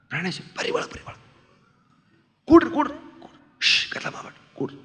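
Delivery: imitating a secretive host, barely voiced; urgent stage whisper. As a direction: hush the visitor in a whisper. Hushed host while boy studies. (ಪಿಸುಮಾತಿನಲ್ಲಿ ಅವಸರದ ಸ್ವಾಗತ)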